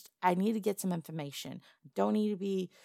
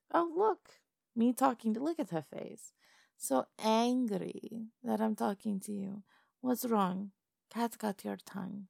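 higher, gleeful mock taunting; gloating taunt; 3 semitones higher than usual. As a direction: lord it over the silenced goblin, sing-song. Madam taunts silenced goblin.

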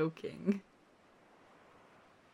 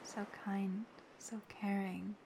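soft, gentle affection; tender praise; 7 dB quieter than usual. Acted. Wiping a friend's tears away, gently and tenderly praising them. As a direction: soothe them with quiet sincerity.

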